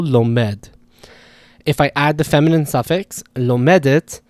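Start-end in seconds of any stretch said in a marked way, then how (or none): 0.0-0.7 lomed with the second syllable stressed, lo-MED; stress on final syllable. Shown as a demonstration. Repeating the Hebrew example, lomed stressed on the end. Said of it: "The stress there is on the final syllable".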